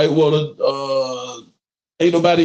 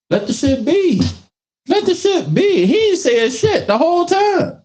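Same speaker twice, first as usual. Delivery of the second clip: high, exasperated plea. Real, not acted. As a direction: plead it high and fed up. Exasperated about Jada.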